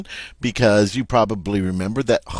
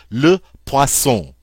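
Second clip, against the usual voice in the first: "Le poisson" slowly, "wa" and nasal "on" stressed; slow teacher demo of "Le poisson"; slow model repeat; 3 semitones higher, 3 dB louder, slower than usual. Shown as a demonstration. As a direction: draw out "poisson" for students. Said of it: "the O I is that nice wa sound".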